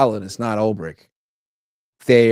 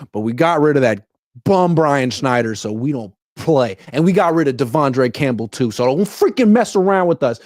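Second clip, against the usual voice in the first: higher, louder mock bravado; mock tough talk; 4 semitones higher, 4 dB louder than usual. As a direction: imitate a team puffing itself up. Mocking team's tough talk.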